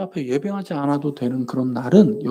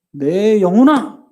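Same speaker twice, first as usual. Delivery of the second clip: loud, slow, raised call; 4 semitones higher, 5 dB louder, much slower than usual. Shown as a demonstration. Preacher models God's voice calling the soul, calling out. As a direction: summon your own soul, drawing the words out. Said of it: "이렇게 불러야 돼요".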